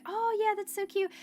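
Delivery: high, airy cooing; a lady gushing at a cute dog; charmed lady. Retold or imitated. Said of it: "she was like".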